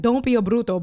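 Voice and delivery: lightly scolding, stress on bruto; with oomph. Shown as a demonstration. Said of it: "but with that type of oomph".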